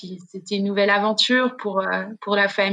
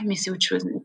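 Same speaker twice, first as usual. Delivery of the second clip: usual speaking voice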